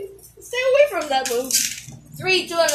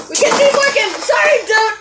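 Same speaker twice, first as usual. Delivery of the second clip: raised, eager call; yelling at a horse race; 4 semitones higher, 3 dB louder than usual. Real, not acted. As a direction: cheer it on. Cheering at spinning tops.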